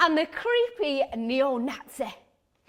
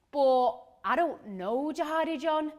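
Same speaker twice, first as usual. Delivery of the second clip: baffled reply. Acted.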